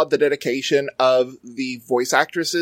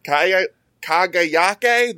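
put-on slow drawled Southern farm boy Kagayake; Southern farm boy accent; much slower than usual. Shown as a demonstration. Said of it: "your best Southern farm boy voice".

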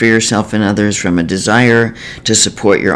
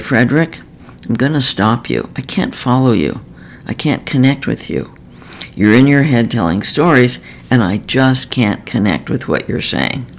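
gently. Retold or imitated. Therapist gently interrupting a client who is rambling. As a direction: calmly stop him without any edge. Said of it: "gently said".

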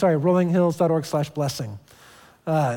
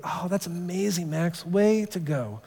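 soft praise; 6 dB quieter, slower than usual. Retold or imitated. Dad softly praising son.

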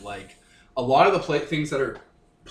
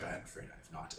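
robot character voice; 8 semitones lower, 21 dB quieter than usual. Acted. Drift answers in character.

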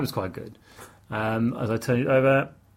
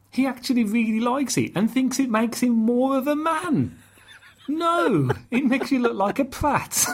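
exasperated rant; 7 semitones higher than usual. Real, not acted. Ranting about the moustache joke.

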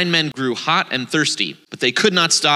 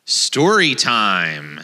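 slow, stretched story-time call; drawn-out announcement; 5 semitones lower, much slower than usual. Real, not acted.

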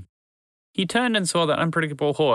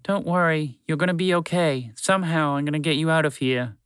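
whispering; 4 semitones higher than usual. Acted. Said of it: "whispered to his large friend".

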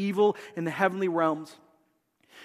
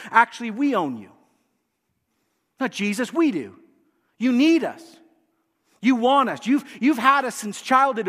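mock the listener as the enemy would; voice of the demons; 2 semitones higher than usual. Preacher voicing demons taunting the congregation, taunting.

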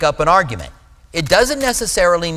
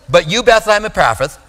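higher, bolder confident declaration; 6 semitones higher, 4 dB louder than usual. Shown as a demonstration. Preacher bluffing a hard Hebrew name, with confidence. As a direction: announce the name as if certain of it. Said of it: "say it with confidence".

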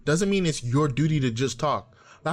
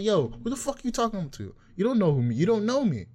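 imagined angry retort; 4 semitones higher than usual. Retold or imitated. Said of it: "You're pissed".

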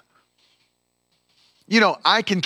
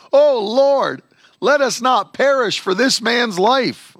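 desperate plea; 6 semitones higher than usual. Acted. Sailors crying out to God.

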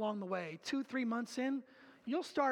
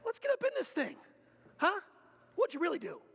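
rising, louder, insistent challenge; pushing for real confession; 8 semitones higher, 3 dB louder, faster than usual. Retold or imitated. Elder presses a friend to really confess, insistent and rising. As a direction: dig in, demand the real answer. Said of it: "It's like".

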